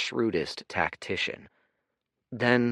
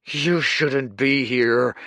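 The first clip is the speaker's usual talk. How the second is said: slow, strained, choked threat; wheezed; 7 semitones higher, 9 dB louder, slower than usual. Acted. Grieving Kuruk warning Dorian off, wheezing. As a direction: force it out through grief. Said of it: "he wheezed".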